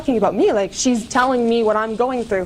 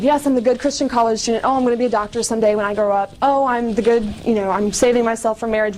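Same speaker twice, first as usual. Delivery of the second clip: mock good-girl voice; faster than usual. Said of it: "putting on face of".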